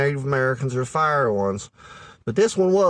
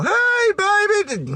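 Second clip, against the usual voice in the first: much higher, slow hammed-up "hey, baby"; sleazy pickup line; 3 dB louder, much slower than usual. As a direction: drawl it like a cheesy pickup artist. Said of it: "that ain't gonna get you nowhere".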